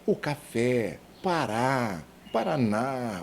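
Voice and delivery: "café, Pará, Paraná" each stressed on the final vowel; stress on last syllable. Shown as a demonstration. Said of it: "na última sílaba". ("café, Pará, Paraná" com a última sílaba tônica)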